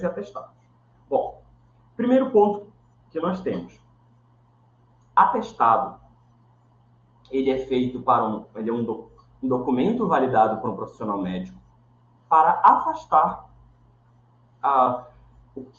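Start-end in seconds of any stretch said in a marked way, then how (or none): 5.1-15.7 talking through hiccups; hiccuping between words. Real, not acted. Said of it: "Eu tô com soluço".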